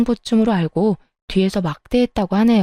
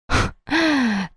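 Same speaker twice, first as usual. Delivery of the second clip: short bitter scoff of a laugh; a dry laugh, not amused; soft scornful laugh at her husband; 4 semitones higher, 4 dB quieter than usual. Acted. Wife scoffs mid-quarrel.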